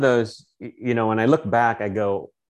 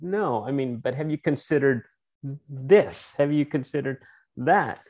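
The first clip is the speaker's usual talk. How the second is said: higher-pitched, gently probing counterpoint; challenging others' views; 6 semitones higher than usual. Retold or imitated. Quizzing people he deals with, mildly raised pitch. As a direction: push back politely, voice lifted. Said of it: "because I go".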